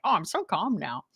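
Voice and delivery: imitating a sarcastic comeback, swooping tune; mock sarcasm. Husband answering wife's "calm down" in a retold spat, sarcastic. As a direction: toss back fake agreement as the husband.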